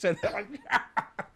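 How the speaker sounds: high, held-in giggle; stifled laugh. Retold or imitated. Client under the needle with stand-up on TV, stifling laughter. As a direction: laugh as if fighting to hold it back. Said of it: "trying not to laugh".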